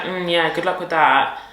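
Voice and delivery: imitated offhand, doubtful well-wishing; mock dismissive. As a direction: draw it out as if unimpressed. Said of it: "it sounded like I was just like".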